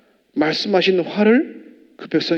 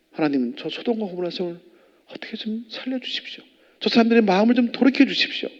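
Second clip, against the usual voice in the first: pleading prayer; 5 semitones higher than usual. Retold or imitated. Abraham pleading for Sodom.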